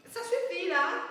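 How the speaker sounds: loud and high, cutting her off; furious shout at a partner's old refrain; angry shout. Acted. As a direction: yell to shut the talk down.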